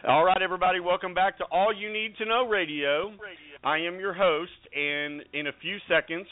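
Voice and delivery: announcer-style build-up, drawn out on key names; radio host introduction. Real, not acted. Radio host introducing a country star to listeners, announcer style. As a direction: present the guest like a star act.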